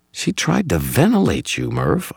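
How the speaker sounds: high, urgent counter; heated retort. A narrator's reading. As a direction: argue back urgently in a hushed exchange. Countering in the hushed argument.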